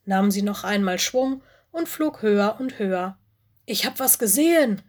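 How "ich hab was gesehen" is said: calling out. Acted. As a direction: call out your discovery eagerly. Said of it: "rief sie". (aufgeregt gerufen, höher und lauter)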